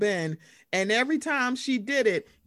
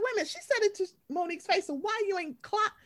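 mock incredulous; 10 semitones higher, 4 dB quieter, faster than usual. Retold incredulous outburst.

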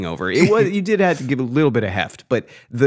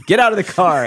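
mock drunken challenge; 8 semitones higher, 3 dB louder than usual. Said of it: "I got this".

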